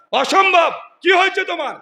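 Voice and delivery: high, loud protest of disbelief; shocked disbelief. Acted. Abu Bakr reacting to Hanzala's confession, shocked. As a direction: refuse to believe it, voice jumping up.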